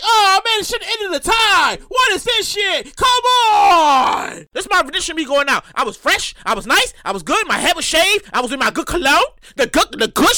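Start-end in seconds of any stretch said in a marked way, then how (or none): 0.0-4.5 retold indignant rant. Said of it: "Keith was like".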